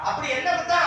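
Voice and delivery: disrespectful wrong way of asking; too blunt question. Shown as a demonstration. Priest mimics boy's wrong question to the god, bluntly. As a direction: bluntly quote "என்ன குத்தம்". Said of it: "அப்படி சாமி கேட்க கூடாது".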